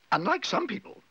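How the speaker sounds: high, arch interjection; pointed. A narrator's reading. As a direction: cut in with a pointed dig. Missus Bird's pointed dig.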